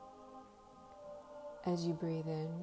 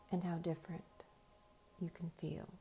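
whispering; 6 dB quieter than usual. Acted. Whispered hypnotic suggestion.

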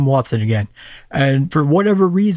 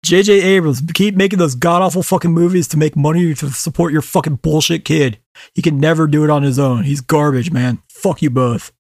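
ranting anger. Real, not acted. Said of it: "I am fucking fuming".

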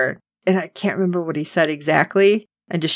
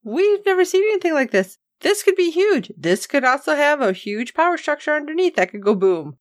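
much higher, urgent mock alarm; alarmed protest; 8 semitones higher than usual. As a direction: plead urgently, pitched up high. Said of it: "And Okoye is like".

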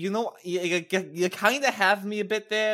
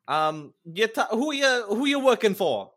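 loud, raised, drawn-out swagger; intimidating challenge; 5 semitones higher, 5 dB louder than usual. Acted. Player's character confronting Waluigi, intimidating. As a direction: size them up loudly, taking your time.

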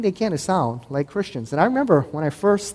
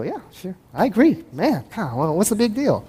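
mock breezy Mormon; 3 semitones higher than usual. Mormons agreeing, dodging the point.

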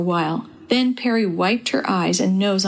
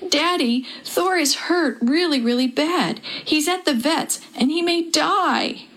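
put-on high, tearful child's plea, slowing at the end; a daughter breaking down in her father's arms; crying out; 7 semitones higher than usual. A narrator's reading. Girl crying to Daddy about her hurt cat, high tearful plea. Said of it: "threw herself into his arms and cried".

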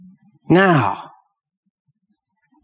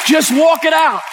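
high, strained emotional cry; real emotion spilling over in a high plea; overcome with emotion; 10 semitones higher than usual. Real, not acted. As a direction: pitch leaps up, overcome. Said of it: "didn't mean to get emotional".

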